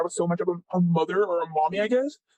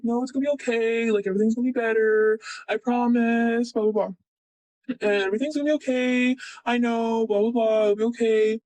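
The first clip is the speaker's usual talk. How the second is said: gently reassure, as if replaying the chat; reassuring; 3 semitones higher than usual. Reassuring a distressed friend.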